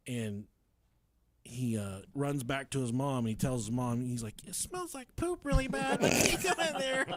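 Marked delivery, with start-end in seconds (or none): 4.5-7.1 high-pitched imitation of a small kid; little boy's voice. Small boy telling his mom, high mock child voice. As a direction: squeak it like an upset child.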